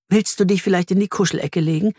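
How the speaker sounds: comforting. A narrator's reading. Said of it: "streicht ihm tröstend über den Kopf".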